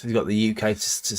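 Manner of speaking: tripping over "U K st-", cut off mid-word; stumbled. Real, not acted. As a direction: trip on "st-" and break off. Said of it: "that was a stumble".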